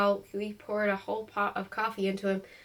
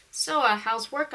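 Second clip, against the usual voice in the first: desperate; 3 semitones higher, 3 dB louder, slower than usual. Acted. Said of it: "I said desperately".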